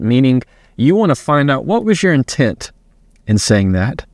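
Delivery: usual speaking voice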